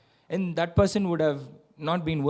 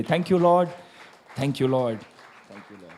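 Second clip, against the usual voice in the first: thankful response; 4 semitones lower than usual. Shown as a demonstration. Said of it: "put your hands together and say".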